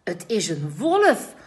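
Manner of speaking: loud, high correcting call. A narrator's reading. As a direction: call out to set them straight. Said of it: "roept Simon".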